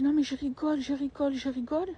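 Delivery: high, airy excuse; dismissive backpedal. Retold or imitated. Sister-in-law backpedalling after insult, high airy excuse. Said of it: "elle dit".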